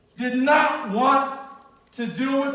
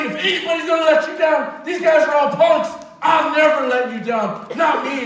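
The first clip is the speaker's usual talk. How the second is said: brash boast; 4 dB louder than usual. Retold or imitated. Peter boasting loyalty to Jesus.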